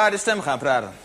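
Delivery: lager vervormd stemmetje; verdraaide stem. Shown as a demonstration. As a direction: zet een verdraaide stem op. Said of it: "met de verdraaide stem gaan praten". (verdraaide stem)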